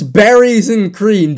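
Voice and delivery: slow, drawn-out mock roar. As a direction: roar it out like a lion.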